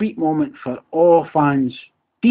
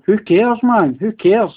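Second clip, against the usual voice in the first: loud, higher, furious "who cares"; angry shout; 8 semitones higher, 6 dB louder than usual. Real, not acted. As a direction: shout it at the rival fans. Ranting fan shouting at rivals.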